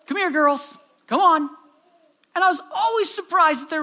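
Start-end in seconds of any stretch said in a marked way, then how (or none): 0.0-1.5 grandpa's calm call to the cows, slightly higher. Retold or imitated. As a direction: call the cows gently but clearly. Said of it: "in this kinda calm voice".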